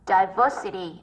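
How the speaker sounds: "diversity" slowly, stressed on "ver"; second-syllable stress. Shown as a demonstration. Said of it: "âm hai".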